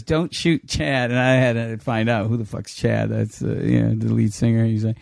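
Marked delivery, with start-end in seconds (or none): 0.0-1.1 slow, measured order; deliberate instruction. Retold or imitated. Band's manager to the show's director, slow deliberate order. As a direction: space out each word as a directive.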